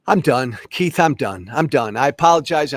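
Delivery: loud, exasperated I'm done, real pissed off; real anger. Real, not acted. Host cuts off his rant to Keith, loud exasperation. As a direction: blow up and then apologize to the host. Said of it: "I'm pissed off".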